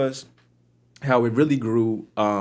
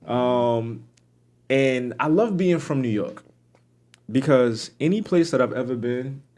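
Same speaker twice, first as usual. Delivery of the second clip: ordinary talk, nothing marked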